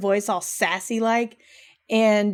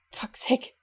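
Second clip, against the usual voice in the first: breathy whispered fuck's sake under the breath; whispered curse; 2 semitones higher, 7 dB quieter than usual. Real, not acted. Annoyed at herself mid-story, whispered curse. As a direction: mutter it under your breath. Frustrated aside.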